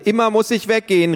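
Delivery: high, loud whiny protest; little girl complaining she must leave again; child's outcry. Acted. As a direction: cry out like a child sent away. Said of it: "rief Tiffany".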